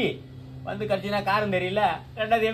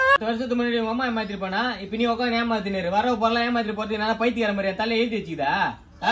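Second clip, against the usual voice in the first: loud, indignant rant; angry complaint; 2 semitones higher, 5 dB louder than usual. Acted. Man quarrelling about being cheated, loud angry complaint. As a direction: protest loudly at being taken for a fool.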